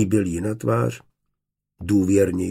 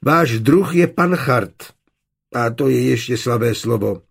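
indignant outburst; 4 semitones higher, 5 dB louder than usual. Acted. Maid tells Johann of her master, indignant. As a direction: spit it out, outraged at him. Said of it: "vyhrkla pobouřeně".

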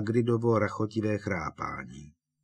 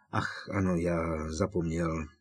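lying lightly; 3 semitones lower than usual. Acted. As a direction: play innocent. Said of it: "zalhal Harry". (falešně nevinně)

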